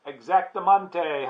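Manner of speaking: loud, high cheer of agreement; howled. A narrator's reading. Doggies confirm the pipeline plan, howling. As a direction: howl it out like eager doggies. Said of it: "howled the doggies".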